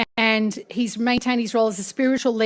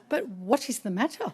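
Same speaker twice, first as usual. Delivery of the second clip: soft, kindly imitated question; gentle concern; 8 dB quieter than usual. His Holiness to sobbing producer, gentle concern. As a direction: imitate a gently puzzled elder.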